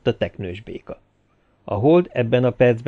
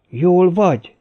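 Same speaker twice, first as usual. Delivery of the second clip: anxious, raised voice; worried; 7 semitones higher, 7 dB louder, slower than usual. A narrator's reading. Tilford worriedly asks Kevin whether he is all right. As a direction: ask with real concern. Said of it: "kérdezte aggódó hangon Tilford".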